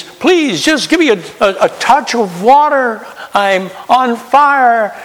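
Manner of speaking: high pleading voice, slowed at the end; begging rich man. Retold or imitated. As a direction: beg for water like a man on fire.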